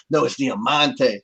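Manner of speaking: slow, careful "Diamante" with a firm "No"; Conan's pronunciation. Retold or imitated. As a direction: insist on "Diamante", drawn out. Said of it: "to him, it sounded different".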